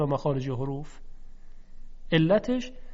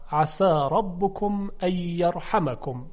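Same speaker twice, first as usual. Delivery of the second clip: slow Quranic recitation; slower than usual. Shown as a demonstration. Teacher recites verse slowly.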